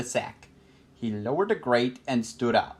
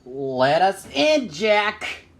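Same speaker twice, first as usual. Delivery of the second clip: slow, loud, raised-pitch demand; yelling from outside; 7 semitones higher, 4 dB louder, much slower than usual. A narrator's reading. Robert pounding on the cottage door, yelling to Jack. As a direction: holler it through a shut door. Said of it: "Robert yelled from outside".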